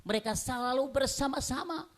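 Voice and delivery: high, insistent sermon delivery; urgent pulpit proclamation; impassioned preaching. Real, not acted. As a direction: preach it forcefully to the congregation. Preaches in rhythmic list.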